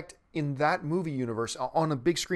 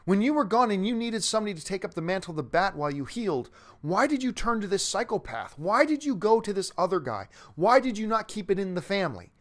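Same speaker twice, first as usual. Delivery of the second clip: higher-pitched wounded plea; hurt, demanding; 5 semitones higher than usual. Retold or imitated. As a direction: act out a pained, rejected demand for an answer. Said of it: "Dick wants to know".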